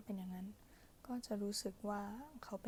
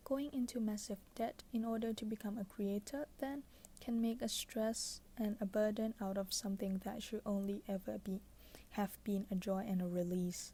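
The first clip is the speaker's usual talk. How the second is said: pillow talk; much slower than usual. Acted. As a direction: read it like a bedtime whisper. Reads book passage softly.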